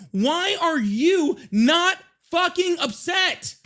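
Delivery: slow, pained yell, close to tears; angry cry. Real, not acted. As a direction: cry out in furious disbelief. Heated argument on live stream.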